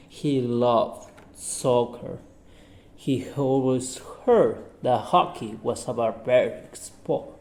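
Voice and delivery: reading a simple story aloud to the class. Acted. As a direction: narrate it clearly, like a class reader. Reads a short story aloud.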